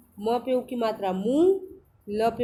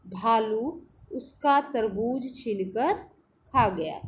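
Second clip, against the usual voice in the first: slow reading aloud; slower than usual. Shown as a demonstration. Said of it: "चलिए पढ़ना शुरू करते हैं".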